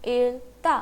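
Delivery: इल्ता split as इल, then ता; pronunciation demo. Shown as a demonstration. Teacher shows how this word is pronounced, sounding out इल्ता by syllable. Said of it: "this word will be pronounced as".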